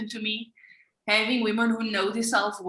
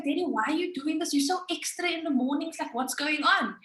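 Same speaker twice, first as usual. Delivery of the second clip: exasperated whine; 5 semitones higher than usual. Retold or imitated. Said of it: "I was like".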